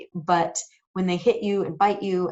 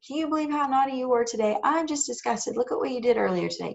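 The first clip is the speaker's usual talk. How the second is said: higher, faster, a lightly hammed disgusted nag; mock guilt-trip scolding; 5 semitones higher than usual. Mom mimicking the nagging parents should avoid, mock scold. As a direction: rattle it off like a parent rubbing it in. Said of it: "You don't wanna bring it up an hour later".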